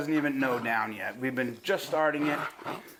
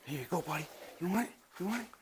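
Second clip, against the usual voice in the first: much softer coaxing; 11 dB quieter, much faster than usual. Real, not acted. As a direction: tempt the puppy gently. Offering toy to puppy.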